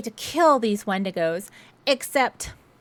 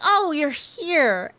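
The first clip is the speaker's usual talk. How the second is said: slow, higher, lightly voiced calm doctor; 5 semitones higher, much slower than usual. Doctor Hill greets the patient casually, slow and unbothered. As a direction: greet her as if nothing's wrong, slowly. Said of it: "He's like".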